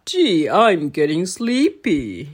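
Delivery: slow, dazed dopey voice; dopey hypnotized cat. Acted. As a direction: drawl it out half asleep. Big Jim hypnotized.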